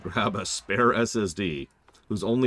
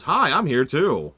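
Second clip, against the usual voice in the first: mock meek villain; 7 semitones higher, 8 dB louder, slower than usual. Mocking a weak villain's greeting.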